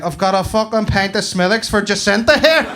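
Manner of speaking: loud, high yell across the shop; hammed-up counter shout; barista calling order. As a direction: holler the order to the whole room. Local barista calls out wrong order.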